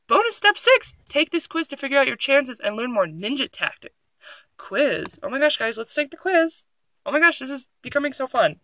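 mock eager; excited. Real, not acted. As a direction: get excited about a silly quiz. Excited about the quiz.

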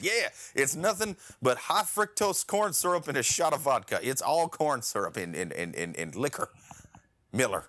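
hammed-up commercial announcer pitch; mock beer ad. Parodying a Miller ad pitch to his cohost, mock announcer. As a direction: sell it like a cheesy beer ad, mock-proud. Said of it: "they gotta be like".

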